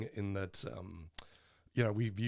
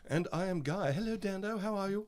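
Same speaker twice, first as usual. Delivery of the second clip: put-on bored rich kid voice, fried and lazy; lazy entitled vocal fry; 8 semitones higher than usual. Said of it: "got more rich kid voice".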